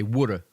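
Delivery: "woulda" said as Philly for water; Philly-style "woulda", WOOD-uh; Philly pronunciation. Shown as a demonstration. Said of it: "in Philly, we say".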